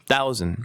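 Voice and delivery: "thousand" as "thau-zn", a short neutral last vowel; in-between vowel. Shown as a demonstration. Teacher showing the middle vowel, in-between vowel. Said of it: "중간쯤이라고 보시면".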